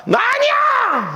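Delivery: high, drawn-out desperate yell; panicked shout. Acted. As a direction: cry out as the soldiers close in. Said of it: "하는 거예요".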